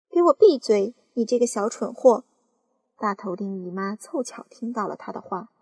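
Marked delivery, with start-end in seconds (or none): 0.1-2.2 angry aunt. Acted. Aunt snapping at boy.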